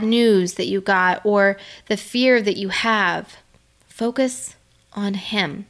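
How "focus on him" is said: slow emphasis. Shown as a demonstration. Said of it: "So I'm gonna say that again".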